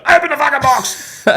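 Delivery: high, loud yell breaking into laughter; dad gripping the rooster, yelling at the boys, laughing; laughing mock yell. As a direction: shout it while cracking up.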